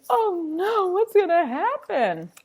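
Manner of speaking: hammed-up childish worry; dramatic child alarm. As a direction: play the anxious kindergartner. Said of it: "I was a very dramatic kindergartner".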